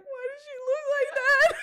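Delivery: high, loud, laughing quote; laughing mock horror. Friend retelling a shocked sister at the vet, laughing. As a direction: laugh through the shocked question. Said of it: "And Taylor's like".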